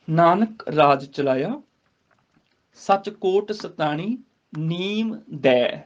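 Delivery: slow, measured chant-like reading of the verse; drawn-out devotional recitation; slow scripture recitation. Shown as a demonstration. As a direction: recite the line slowly and reverently. Reciting scripture line before explaining.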